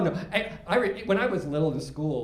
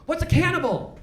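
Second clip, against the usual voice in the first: grandson; 10 semitones higher, slower than usual. Retold or imitated. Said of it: "and he goes".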